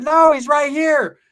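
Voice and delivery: high, slow, drawn-out whine; a slow high-pitched girlfriend voice; mock girlfriend. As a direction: stretch it out like an insistent girlfriend. Girlfriend pointing him out.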